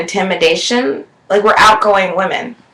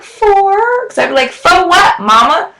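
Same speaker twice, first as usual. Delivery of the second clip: retold questioning; 9 semitones higher, slower than usual. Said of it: "I'm like".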